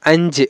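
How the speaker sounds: আঞ্জে said with a clear final e, not i; Malayalam pronunciation. Shown as a demonstration. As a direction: model the sound আঞ্জে carefully for students. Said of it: "Malayalam উচ্চারণটা এরকম হবে".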